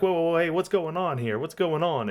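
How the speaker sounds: startled and defensive; startled protest. Acted. NPC startled, arm grabbed.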